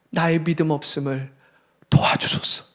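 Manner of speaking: soft plea fading into a whisper. Acted. The father quietly begs Jesus for help, fading to a whisper. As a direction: let the prayer sink to a hush.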